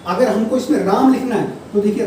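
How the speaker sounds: ordinary delivery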